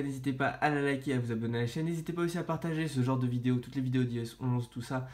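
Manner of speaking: stuffy voice with a blocked nose and sore throat. Real, not acted. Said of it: "j'ai le nez bouché et mal à la gorge".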